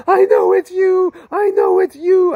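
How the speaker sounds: full-throated high scream of recognition. Retold or imitated. Man held by Jesus screams to him at full voice. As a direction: cry it out at the top of your lungs, overwhelmed. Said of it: "I started screaming at the top of my lungs".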